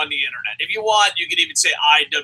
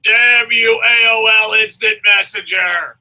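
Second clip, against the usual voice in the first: loud, higher hammed-up cry at the sky; mock dramatic curse; 4 semitones higher, 6 dB louder, slower than usual. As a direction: shake your fist at the internet. Mock villain cursing the internet.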